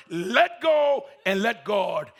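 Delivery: slow quoted command; voice of God. Acted. Preacher repeats God's words slowly. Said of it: "When he heard the word".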